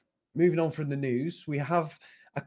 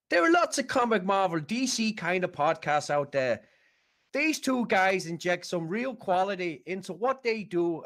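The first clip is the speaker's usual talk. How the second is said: put-on Irish Jamaican accent; 3 semitones higher than usual. Northern Irish accent reading a listener's voicemail review. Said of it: "your Irish Jamaican accent there".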